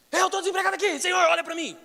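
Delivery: high loud plea; crying out. Shown as a demonstration. Pastor shows how to cry to God, loud high plea. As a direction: shout it so the Lord hears. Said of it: "Você tinha que dar um grito".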